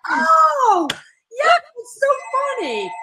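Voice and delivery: mom laughing hysterically. Retold or imitated. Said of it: "And she's like".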